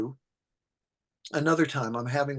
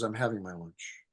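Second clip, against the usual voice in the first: lower, curt lightly voiced Mel; gruff Mel; 6 semitones lower, 8 dB quieter than usual. Mel to a survivor at lunch, curt and low. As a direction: brush her off, deadpan.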